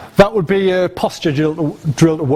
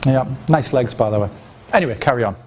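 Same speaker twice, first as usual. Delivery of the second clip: cheeky aside; 5 semitones lower, faster than usual. Shown as a demonstration. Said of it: "a pattern interrupt through a sexual spike".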